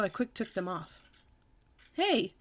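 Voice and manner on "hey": put-on higher, loudish childish outburst. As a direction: complain out loud after the fall. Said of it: "I said very loud".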